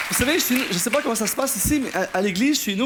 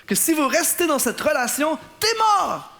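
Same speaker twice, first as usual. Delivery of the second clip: preaching outburst; 5 semitones higher than usual. Real, not acted. Preacher warning about bad relationships.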